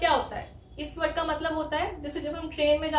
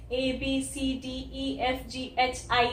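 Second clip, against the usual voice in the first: A B C D E F G H I spelled out slowly; slow alphabet recitation; much slower than usual. Shown as a demonstration. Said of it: "ABCD में यहाँ पे आई बोलते हैं". (धीरे-धीरे वर्णमाला)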